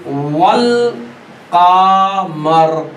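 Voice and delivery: वल कामर very slow, कामर stretched long; वल कामर drawn out, the ल sounded; drawn-out recitation. Shown as a demonstration. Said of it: "तो आप लिखिए".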